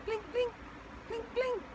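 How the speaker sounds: tiny, soft cartoon blink sound; little plinking eye-blink effect, quiet; cartoonish blink. Shown as a demonstration. Stunned customer's eyes blinking, as a cartoon sound. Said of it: "do the little cartoonish sounding blink".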